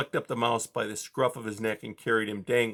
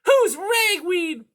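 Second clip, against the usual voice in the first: high, loud, slow demand; drawn-out menacing cat question; 8 dB louder, slower than usual. A narrator's reading. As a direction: ask it like a piercing-voiced villain.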